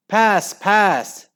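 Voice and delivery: high, urgent shout; scream. A narrator's reading. Al demanding the ball from Henry, screaming. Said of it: "screamed Al".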